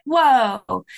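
mild drawn-out wow at a pretty sight; awed whoa. Retold or imitated. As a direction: let an impressed "whoa" rise gently. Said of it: "you're like".

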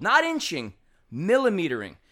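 millimetering pressed after Not inching; pointed millimetering; stress on millimetering. Shown as a demonstration. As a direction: set millimetering against inching.

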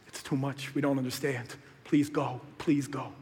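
a small shrinking request; timid mock plea; subdued crowd plea. Crowd asks Jesus to leave.

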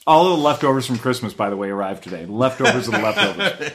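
chewing while talking. Real, not acted. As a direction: mouth full of cookie. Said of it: "that's why I sound like I'm chewing".

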